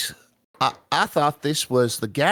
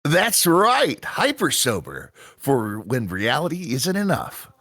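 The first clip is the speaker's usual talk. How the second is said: punchy ad-read pitch; commercial announcer. Acted. Announcer pitching Hyper Sober to tired Taki, ad-read style. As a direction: sell it like a TV spot.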